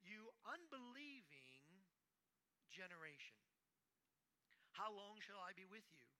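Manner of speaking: Christ scolding an unbelieving generation; rebuking Christ. Acted. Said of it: "Christ is coming to them and saying".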